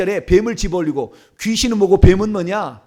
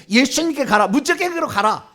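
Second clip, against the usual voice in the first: firm, slightly raised banishing orders; commanding; 3 semitones higher than usual. Shown as a demonstration. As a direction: send it away with calm authority. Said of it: "이게 얘기할 수가 있어요".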